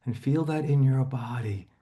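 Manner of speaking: calm imagery guidance for a client; guided relaxation. Acted. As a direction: ease her into lying down, slowly.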